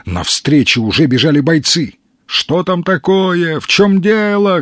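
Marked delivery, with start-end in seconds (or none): 2.3-4.6 high, alarmed shouted questions; shouting. A narrator's reading. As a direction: call out to find out what happened. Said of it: "кричали они".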